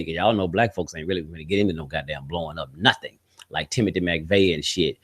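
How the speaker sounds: ordinary talk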